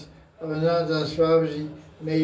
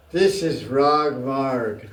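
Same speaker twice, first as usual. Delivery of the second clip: slow emphatic; 4 semitones lower, much slower than usual. Shown as a demonstration. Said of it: "They speak like this".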